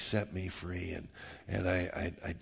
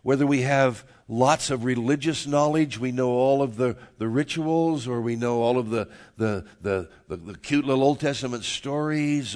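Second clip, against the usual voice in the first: loud, rolling list of contrasts; emphatic preached list; 3 semitones higher, 7 dB louder than usual. Real, not acted. Pastor telling the congregation salvation is for everyone, emphatic preaching. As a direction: drive through each item with a preacher's force.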